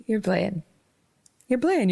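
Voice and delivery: rising shock at his claim; building disbelief. Retold or imitated. Disbelief, second higher louder.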